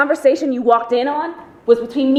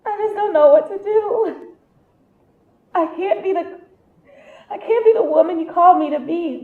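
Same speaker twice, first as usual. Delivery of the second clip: tearful prayer. Acted.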